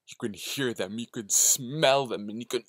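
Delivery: eerie voice waiting in the dark; lurking hungry predator. Acted. Lurking hungry presence speaks.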